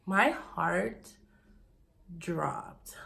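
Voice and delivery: breathless whisper of shock. Real, not acted. Telling her viewers, stunned whisper. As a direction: let the word fall away in a whisper.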